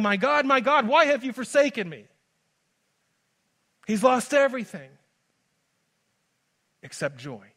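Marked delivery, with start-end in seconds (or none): 0.0-2.1 louder, higher anguished cry; shouting. Retold or imitated. Preacher voicing Jesus on the cross, a loud anguished shout. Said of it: "He's shouting".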